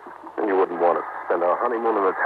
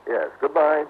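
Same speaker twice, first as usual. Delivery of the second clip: raised, courteous phone voice; telephone manner; 6 semitones higher than usual. Acted. Husband giving the caller his address, higher phone voice. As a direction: speak up brightly into the receiver.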